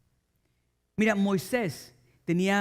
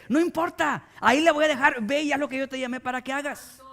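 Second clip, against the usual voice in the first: God commanding; 6 semitones higher than usual. Retold or imitated. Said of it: "le dice".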